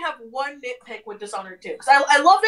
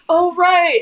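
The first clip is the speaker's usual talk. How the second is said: surprised; 8 semitones higher, 12 dB louder than usual. Real, not acted. Sudden realisation in game.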